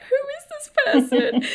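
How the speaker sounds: excited. Retold or imitated. Excited self-quote with a laugh.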